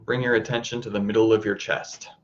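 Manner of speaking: calm, even voice with long pauses; guided meditation. Acted. Teacher guiding listeners to soften the heart, calm meditation voice. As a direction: lead them gently inward, leaving space between phrases.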